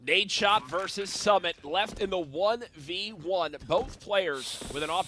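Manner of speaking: slow, dramatic caster voice; esports caster. Pretend. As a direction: hype play-by-play announcer, drawn out. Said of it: "You guys mind if I try something here".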